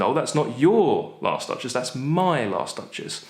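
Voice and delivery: "my" punched against "your"; contrastive stress on MY. Shown as a demonstration. Duke contrasting his duchess with someone else's. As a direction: stress "my" as if not yours. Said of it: "comparing it to somebody else's".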